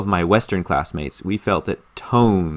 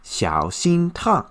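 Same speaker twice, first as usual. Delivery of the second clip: mildly tender motherly warning; gentle warning that lifts in pitch. Retold or imitated. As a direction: imitate a loving mom cautioning her child. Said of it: "the love and the tenderness".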